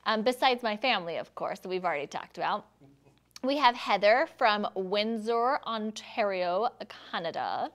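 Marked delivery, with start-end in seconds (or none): 3.4-7.7 slow, drawn-out grand announcement of a place name; fancy announcing. Acted. Host reading a viewer's hometown, mock fancy and slow. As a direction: savour each place name like it's posh. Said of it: "I don't know why I said it like that".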